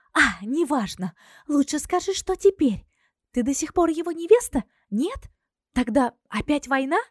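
put-on pushy young friend pressing for news; Zina's voice.

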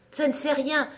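high, gentle reassurance; soothing tone. A narrator's reading. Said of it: "dit Alice d'un ton apaisant". (ton apaisant, voix haute)

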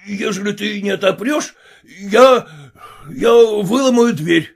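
father threatening his daughter through the locked door; angry threat. Acted.

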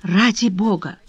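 imploring, rising on только; умоляющим тоном; pleading tone. A narrator's reading. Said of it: "проговорила Вишня умоляющим тоном".

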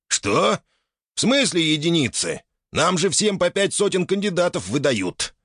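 put-on high, startled old man; surprised old man. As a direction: ask in disbelief. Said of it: "от удивления".

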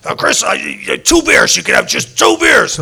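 high, loud mock boss voice: "two beers" pushed way up; imitating the boss, voice shooting high and loud on "two beers"; drunk-warning boss. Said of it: "my boss would go".

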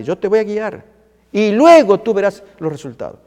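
firm, forceful divine promise; God, insistent assurance. Acted. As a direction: urge them to trust, phrase after phrase. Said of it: "Dios nos dice lo mismo".

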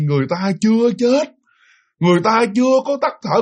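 half-hearted retold lecture, part scolding, part preaching; scolding sermon. Spirit master lecturing the possessing ghost, in mild retold scolding. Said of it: "vừa chửi vừa giảng như vậy".

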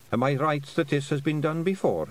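put-on a sly old Scottish matriarch sniffing out a treat; lightly voiced old Scottish woman, teasing; old Scots Kelda. Kelda asking the bard.

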